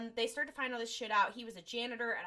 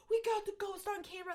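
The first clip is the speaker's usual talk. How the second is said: high, excited retold outburst; mock freaking out; 10 semitones higher than usual. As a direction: imitate thrilled ghost hunters in a high voice. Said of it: "They're, like, freaking out".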